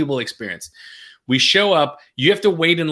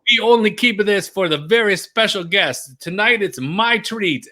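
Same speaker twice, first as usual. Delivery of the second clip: proud Italian waiter; 7 semitones higher, slower than usual. Retold or imitated. Waiter offers special bottle.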